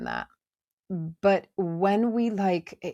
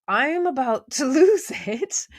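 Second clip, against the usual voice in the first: about to lose it; 7 semitones higher, 6 dB louder than usual. Retold or imitated. Catching herself about to snap.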